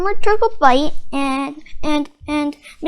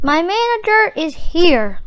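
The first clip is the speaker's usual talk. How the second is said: relieved sigh; 3 semitones higher, 4 dB louder than usual. Acted. Mister Krabs, relieved his manager arrived, sighing. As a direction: breathe it out with relief. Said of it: "with a sigh of relief".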